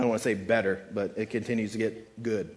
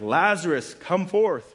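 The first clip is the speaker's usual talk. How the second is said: louder, higher acted summons; calling out; 5 semitones higher, 5 dB louder, slower than usual. Preacher as Jesus summoning his dead friend, calling out. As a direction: call someone out of a tomb, lightly acted.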